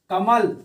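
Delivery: कमल with weight on its second syllable; stress on म in कमल. Shown as a demonstration. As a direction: lean on the म of कमल. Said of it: "सबसे ज्यादा जोर म पर पड़ रहा है".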